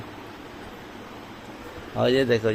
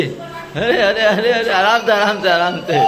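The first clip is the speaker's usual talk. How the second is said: real laughing call, raised and higher; laughing call to slow down; 3 semitones higher than usual. Real, not acted. Mother laughing, calling her child to slow down.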